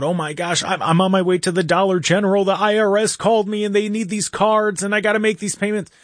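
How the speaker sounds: imitating mom's panic over the phone; mom freaking out. Son retells mom panicking about the IRS. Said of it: "Called me freaking out".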